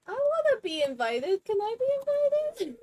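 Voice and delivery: mock pleading. Begging a villager for an invite.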